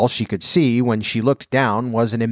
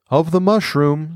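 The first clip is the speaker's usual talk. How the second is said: caterpillar voice; 6 semitones higher than usual. A narrator's reading. Caterpillar answers.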